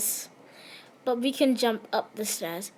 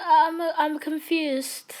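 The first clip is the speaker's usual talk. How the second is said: baffled; 5 semitones higher, slower than usual. Real, not acted. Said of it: "a noise I do when I'm confused".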